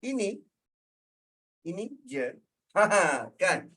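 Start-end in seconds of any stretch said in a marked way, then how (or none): 0.0-2.2 soft, halting reply with a pause; second intonation, sympathetic. Shown as a demonstration. Speaker shows the second intonation of the reply, soft. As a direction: say it quietly, offering what little there is. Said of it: "Intonasi kedua".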